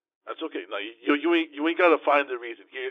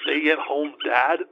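slow, disbelieving question; slow offended disbelief; incredulous; 3 semitones higher, 5 dB louder, much slower than usual. Real, not acted. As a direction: drag it out in disbelief. Offended at wife's description.

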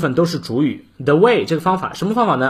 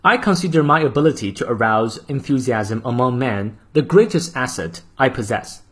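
model reading. Shown as a demonstration. Teacher reading the full quote aloud for practice. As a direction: clear even English model reading. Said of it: "最后一遍".

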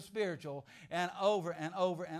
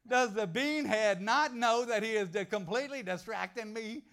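annoyed thought; 3 semitones higher, 7 dB louder than usual. Retold or imitated. Annoyed inner thought, louder.

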